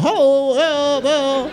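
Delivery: high, sing-song sheepish hello; sheepish greeting. Retold or imitated. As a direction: greet them guiltily. Sheepish greeting to night shift.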